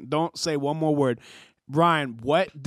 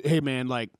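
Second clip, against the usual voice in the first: mock tearful tribute; 4 semitones lower than usual. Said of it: "even if you're tearing up".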